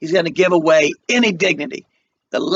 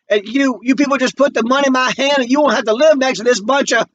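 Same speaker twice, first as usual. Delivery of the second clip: voice breaking; 9 semitones higher than usual. Acted. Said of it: "his voice breaks".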